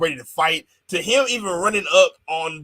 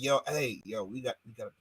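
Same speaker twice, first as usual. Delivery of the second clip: mock backstage voice; 6 semitones lower, 10 dB quieter, much faster than usual. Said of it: "somebody gotta be back there telling".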